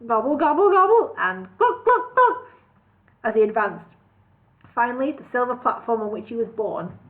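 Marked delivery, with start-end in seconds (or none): 0.1-2.4 high gobbling and clucking; poultry noises. A narrator's reading. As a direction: cluck like a goblin-chicken king.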